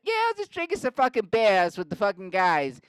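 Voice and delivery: high, loud mock Boston accent; loud Boston yelling. Mark telling police his side, high Boston holler. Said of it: "and it's just loud".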